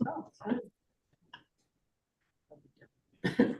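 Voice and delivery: high, light brush-off; breezy brush-off. Retold or imitated. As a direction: toss it off way up high. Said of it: "I'm like".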